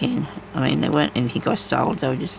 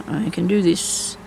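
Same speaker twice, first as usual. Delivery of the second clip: slower, each word set down firmly; slow self-encouragement; 3 semitones higher, slower than usual. Real, not acted. Crafting alone, urging herself on, slow and firm. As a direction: talk yourself through it, slowly. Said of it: "Come on, I can do this".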